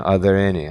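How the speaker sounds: Are there any with the R of there joined to any; linked R. Shown as a demonstration. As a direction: link the R of there straight into any. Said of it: "esse R pode pegar aqui na conexão". (R de there ligado em any)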